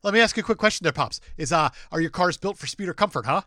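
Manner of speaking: put-on loud, high, salty old sailor voice; gruff old fisherman. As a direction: bark it like a crusty old sea dog. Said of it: "Nailed it. Crushed it".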